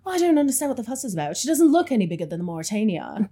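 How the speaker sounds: lightly voiced upper-class girl, fast; a hint of a haughty young heiress; Rose impression. Quoting Rose from Titanic, light haughty voice. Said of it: "It's my Rose impression".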